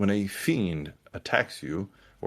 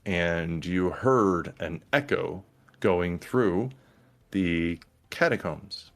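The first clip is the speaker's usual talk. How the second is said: slow, suspenseful game master narration; scene setting. Acted. Game master telling players of rumbles above the catacombs, slow narration. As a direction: draw out the menace phrase by phrase.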